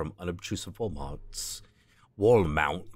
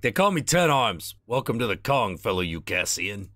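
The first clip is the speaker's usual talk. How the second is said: put-on Midwestern accent; 4 semitones higher, 3 dB louder than usual. Voices Ambrose again.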